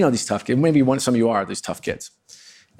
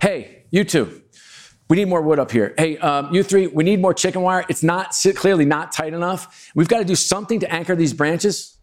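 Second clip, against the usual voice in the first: higher, brisk bossy foreman voice; take-charge mode; 5 semitones higher than usual. Retold or imitated. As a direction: hand out orders like the site boss. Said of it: "goes into full-on mode".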